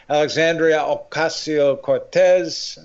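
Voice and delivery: slow, drawn-out name in a put-on Hispanic accent; mock Hispanic accent. Shown as a demonstration. Guest naming a Democrat to the host, in a showy Hispanic accent. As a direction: show off your best Hispanic accent on the name. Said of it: "do that with my best accent possible".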